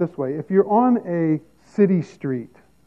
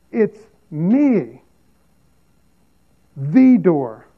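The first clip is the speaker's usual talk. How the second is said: "me" drawn out, then a pause before "the door"; emphatic stress on ME; much slower than usual. Retold or imitated. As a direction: land hard on "me", set "the door" apart. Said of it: "He's being emphatic to say".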